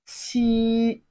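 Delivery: "T" with a burst of air, held high and level; strong airflow. Shown as a demonstration. Teacher models Chinese seven for learners, strongly aspirated "T". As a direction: push air out, then sustain "T" evenly. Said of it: "a very strong airflow".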